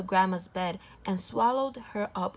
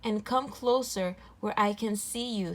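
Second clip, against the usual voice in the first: grandma voice; 2 semitones higher than usual. Acted. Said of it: "in his best grandma voice".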